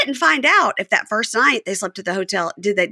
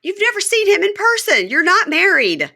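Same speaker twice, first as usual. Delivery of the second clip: much higher, slowed incredulous jab; 11 semitones higher, 3 dB louder than usual. Real, not acted. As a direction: spell out the absurdity. Co-host mocking couple's claims.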